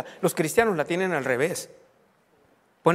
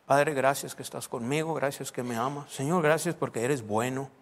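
everyday prayer; 3 semitones lower than usual. Shown as a demonstration. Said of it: "Así empiezo orando todos los días".

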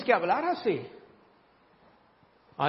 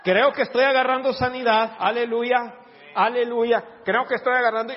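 louder, laughing hallelujahs; mock faith-filled sniffle; 4 dB louder than usual. Preacher showing faith through a cold, cheerful mock. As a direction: declare healing while congested. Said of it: "hazlo en fe".

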